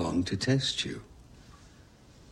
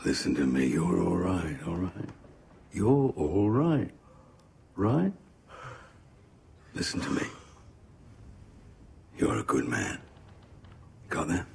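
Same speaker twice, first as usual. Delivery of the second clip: calm. Acted. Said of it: "Meredith approaches Colin calmly".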